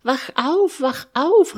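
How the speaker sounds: high, loud wake-up call; excited calling out. A narrator's reading. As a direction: call out urgently to rouse a sleeper. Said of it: "rief Mister Quatschkopf". (laut und aufgeregt rufen)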